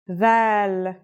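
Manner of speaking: Dal starting with TH as in "this"; Dal with its D softened to a voiced TH. Shown as a demonstration. Teacher at handwriting time, Dal with voiced TH. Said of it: "like the T H sound in the word this".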